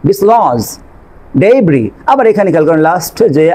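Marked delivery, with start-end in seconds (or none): 1.4-1.8 "ডেব্রি" said day-bree, ending on the vowel; "ডেব্রি" as a model word, no s at the end; silent final S. Shown as a demonstration. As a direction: leave the last s off "ডেব্রি". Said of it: "আমি কিন্তু ডেব্রিস বলছি না".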